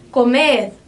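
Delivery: "comer" with a strong last syllable; final-syllable stress. Shown as a demonstration. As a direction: punch the second syllable of "comer". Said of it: "essa última sílaba acaba ficando mais forte".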